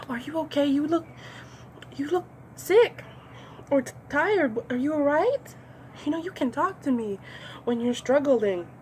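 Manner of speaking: high, sugary fake-caring coworker voice; mock concerned coworker. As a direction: play the nosy colleague pretending to care. Nosy coworker fakes concern.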